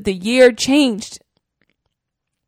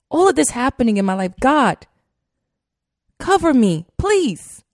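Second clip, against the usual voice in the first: pleading, pitch climbing and louder toward please; tearful prayer; 3 semitones higher, 4 dB louder than usual. Retold or imitated. Retelling her morning prayer to God, tearful pleading. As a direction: beg God to cover you, close to tears. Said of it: "And I'm crying".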